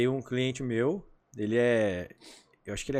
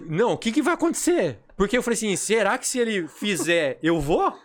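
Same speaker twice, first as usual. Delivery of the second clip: excited retelling; 6 semitones higher, 6 dB louder than usual. Retold or imitated.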